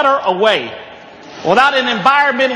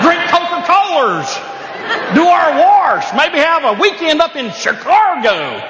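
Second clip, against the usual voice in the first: slow Southern drawl, higher; 4 semitones higher than usual. Retold or imitated. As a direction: drag out the vowels the Southern way. Mocking Southern R-adding speech.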